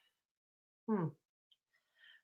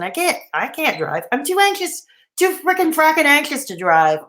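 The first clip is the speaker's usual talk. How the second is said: high anxious whine; 4 semitones higher than usual. Real, not acted. Exaggerated anxious complaint.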